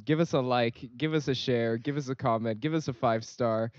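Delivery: put-on light Singlish accent, upbeat plug. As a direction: Singaporean English lilt, lightly done. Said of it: "if you guys want me to do my Singlish accent again".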